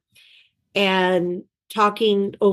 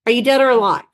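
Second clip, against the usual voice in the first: jovial greeting; 4 semitones higher than usual. Retold or imitated. Bush's jokey phone greeting.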